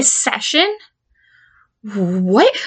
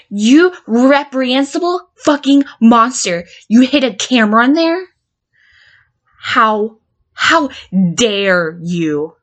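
furious. Acted. To the counselor who hid a camera, furious accusation. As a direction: spit it at him in disgust.

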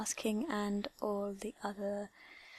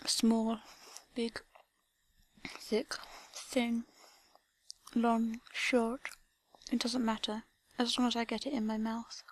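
slow, breathy seductive whisper; 4 dB quieter than usual. Acted. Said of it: "Slowly and seductively".

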